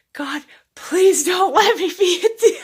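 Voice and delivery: retelling a scared prayer, laughing now; laughing mock plea. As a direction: beg God but laugh through it. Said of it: "I was, like, crying".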